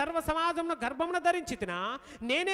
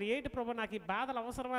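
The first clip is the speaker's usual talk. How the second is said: softer, tired muttered complaint; preacher's private lament to the Lord, softer and weary; weary inner sigh; 3 semitones lower, 5 dB quieter than usual. Retold or imitated. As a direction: say it to yourself, worn out. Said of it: "అనిపిస్తుంది నాకు".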